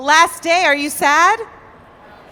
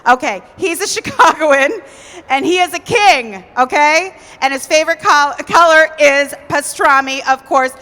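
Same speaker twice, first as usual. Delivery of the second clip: emcee hype; 3 semitones higher, 6 dB louder than usual. Acted. Hyping up the audience.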